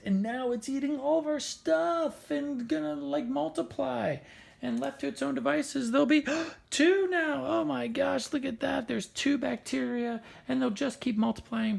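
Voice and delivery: high-pitched, mock-panicked narration; mock alarm. Cartoon alarm over spreading bacteria.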